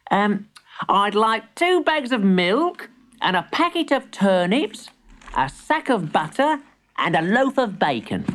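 put-on high, careful little boy; innocent boy voice. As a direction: read the list earnestly. Boy reads muddled list.

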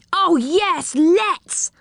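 put-on high, eager child's voice; high-pitched keen agreement; excited cry. A narrator's reading. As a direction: pipe up with great eagerness. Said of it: "cried Rick".

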